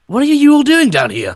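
high pleading voice. Pretend. S1 as Monster Hunter, S0 begging.

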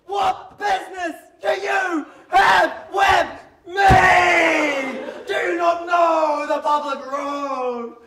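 imitating a shrill furious old man; shrill shouting. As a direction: screech it like a cranky old farmer. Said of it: "He was shouting shrilly".

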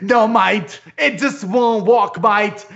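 lightly put-on British accent, slow in places; hint of a British mate voice. Imitating a British teammate, light British accent. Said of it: "that's his British accent there".

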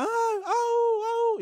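high mock yelp of a hurt puppy; dog yelping. Retelling the puppy on a nail, high mock yelp. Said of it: "que le grita".

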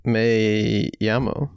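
slow, hammed-up Spanish accent; bad Spanish accent. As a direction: drag out a fake Spanish accent. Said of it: "doing a bad Spanish accent on purpose".

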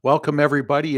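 usual speaking voice

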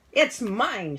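put-on storyteller's high, loud child's shout. A narrator's reading. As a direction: shout it as a possessive child would. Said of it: "shouted two".

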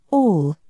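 All said with light weight; great emphasis. A narrator's reading. King to the jury, a mild emphatic All. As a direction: lean a little on All. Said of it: "he repeated with great emphasis".

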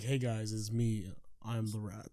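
low, soft little rat character. Acted. Co-host pops up as a rat in Ratatouille, low rat voice. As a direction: introduce yourself quietly as a low-voiced rat. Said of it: "Is that your rat voice?".

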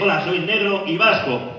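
slow, deliberate proud intro; mock-solemn introduction; slow self-introduction. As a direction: lay it out slowly and proudly. Character introduces himself slowly.

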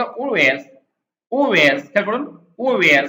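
"Always" as a rounded oh-ways. Shown as a demonstration. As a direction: say "Always" with the L dropped. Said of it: "এল এর উচ্চারণটা অনেক সময় করে না".

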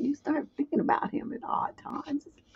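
hushed, breathy aside to the audience; whisper. Real, not acted. Whispering to viewers about daydreaming. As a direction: drop to a whisper.

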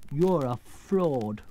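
very slow, wounded accusation; grieved. Acted. Scarecrow accusing the false wizard, grieved. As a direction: drag out the reproach. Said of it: "in a grieved tone".

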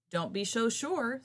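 slow, high snapped retort; snapping crocodile. Acted. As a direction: snap it like a crocodile. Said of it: "snapped the crocodile".

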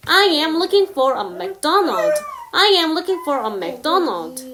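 I am looking for a McDonald, spoken very slowly; careful teacher read; slow demo; slow example. Shown as a demonstration. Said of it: "예문을 한번 들어볼게요".

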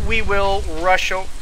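speaking with hiccups. Real, not acted. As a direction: cut off by a hiccup. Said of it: "I got the hiccups".

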